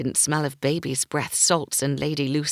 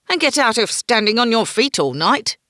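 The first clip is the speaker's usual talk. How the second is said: mocking jab; 6 semitones higher, 7 dB louder than usual. Brandt mocking Quentin.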